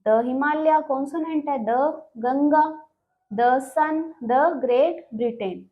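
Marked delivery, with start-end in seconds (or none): 0.1-0.8 short schwa in "the Himalaya"; "the" as duh. Shown as a demonstration. Teacher giving consonant example, "the" as "duh". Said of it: "pronounce कैसे करेंगे". 1.6-5.6 each "the" a short "duh"; slow examples with schwa in every "the". Shown as a demonstration. Teacher listing consonant examples, each "the" as "duh". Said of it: "pronounce कैसे करेंगे".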